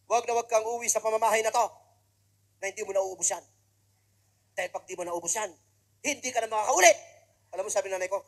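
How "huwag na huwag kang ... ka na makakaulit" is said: stern warning. Acted. Son laying down a condition.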